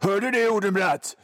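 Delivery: a hint of a grim TV detective; mock crime drama line. Host parodying dreary crime series dialogue, lightly mock grave. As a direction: deliver it like a gloomy police series cliché. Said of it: "folk säger saker som".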